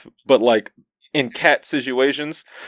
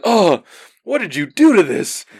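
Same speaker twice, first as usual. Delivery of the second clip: pet owner; 5 semitones higher than usual. Retold or imitated. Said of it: "he's like".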